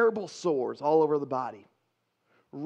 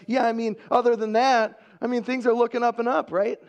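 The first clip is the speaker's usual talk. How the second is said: higher, hurried false optimism; fake upbeat answer; 4 semitones higher than usual. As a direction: gloss over the trouble quickly. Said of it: "fake garbage answer".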